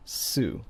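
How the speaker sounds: Su said "soo", S joined to an oo; Japanese syllable su. Shown as a demonstration. Teacher building the name Stan from S and U, syllable su. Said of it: "and the U".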